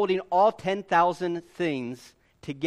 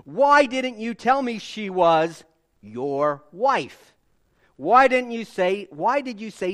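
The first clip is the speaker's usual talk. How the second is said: loud, slow indignant questioning; Pharaoh's rebuke; 4 dB louder than usual. Acted. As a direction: scold like a deceived king. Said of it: "he said".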